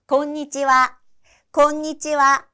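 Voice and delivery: clear, careful 곤니치와 with a doubled n, konnichiwa; teacher demo of 곤니치와; model pronunciation. Shown as a demonstration. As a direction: say 곤니치와 clearly for learners to repeat. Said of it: "따라서 해보세요".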